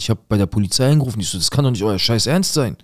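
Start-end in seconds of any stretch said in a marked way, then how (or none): 1.4-2.8 raging disbelief on a phone call; furious at police. Retold or imitated. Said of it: "ich bin durchgedreht".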